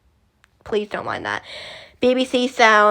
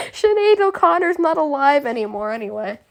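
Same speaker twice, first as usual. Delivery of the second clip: higher-pitched attempt at an Irish accent; amateur Irish accent, pitched up; bad Irish accent; 4 semitones higher than usual. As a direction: have a poor go at Irish. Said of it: "The worst Irish accent I could do".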